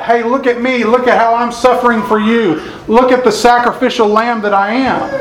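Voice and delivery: pitched high, hammed-up look-at-me whine; mock attention-seeking. Preacher to congregation, imitating showy suffering, high mock whine. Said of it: "He didn't scream those kinds of things".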